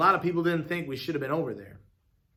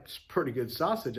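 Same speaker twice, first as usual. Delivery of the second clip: talking around a bite; mouth full; 4 dB quieter than usual. Acted. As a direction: say it through a mouthful of food. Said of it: "I said with my mouth full".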